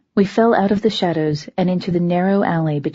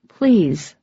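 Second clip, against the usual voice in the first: pleading. Acted. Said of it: "looking pleadingly".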